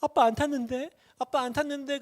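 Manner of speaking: high-pitched imitation of a tearful child; imitated plaintive whimpering; mock crying child. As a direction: play a child wailing, without much volume. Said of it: "얘가 막 울어요".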